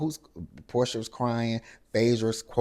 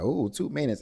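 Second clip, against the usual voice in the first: a high sarcastic "Ooh, two minutes."; mocking ooh; 7 semitones higher than usual. Shamea mocks Angela's two-minute call with a high sarcastic ooh. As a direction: tease the number with a sing-song ooh.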